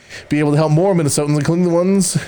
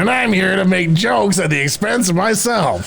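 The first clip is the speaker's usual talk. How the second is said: Louis Anderson impression; 3 semitones higher than usual. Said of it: "a famous Minnesotan who has a very iconic voice".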